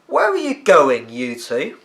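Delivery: high, slow call across the snow; high boy's call across the garden. Acted. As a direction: call after the two boys. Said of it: "Billy Raven called out".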